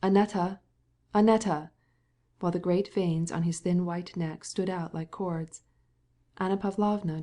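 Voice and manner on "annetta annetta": calling out louder and louder across the way; hoarse call. A narrator's reading. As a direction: call his wife's name, rising. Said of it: "he called hoarsely".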